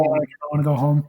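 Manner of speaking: Wisconsin home, long rounded o in "home"; Wisconsin accent. Shown as a demonstration. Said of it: "say the word home for me".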